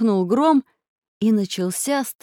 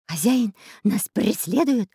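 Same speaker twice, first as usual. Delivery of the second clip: lightly voiced parrot; parrot cry. A narrator's reading. Parrot warns its master of pursuit, squawky warning. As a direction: put on a parrot's alarm, without shouting. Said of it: "закричал попугай Кутя-Плютя".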